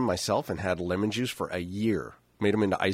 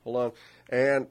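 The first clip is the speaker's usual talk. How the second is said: about to sneeze; 2 semitones higher than usual. Real, not acted. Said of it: "I feel like I'm about to sneeze".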